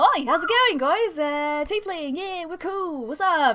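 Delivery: loud, obnoxious voice. Narrator voicing a character who rushes over to greet the tieflings, very loud and obnoxious. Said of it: "he's just very loud and obnoxious".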